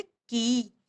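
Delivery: "की" drawn out slowly as kee; unhurried long vowel in "की"; long ee sound. Shown as a demonstration. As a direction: hold the ee of "की" at ease. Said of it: "इसी तरीके से".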